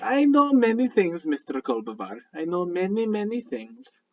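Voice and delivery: measured, formal mystic with a lilting pitch; courteous stranger paying a compliment; lightly voiced Midnight. Midnight praising Mister Kolbavar for his work, lightly acted mystic.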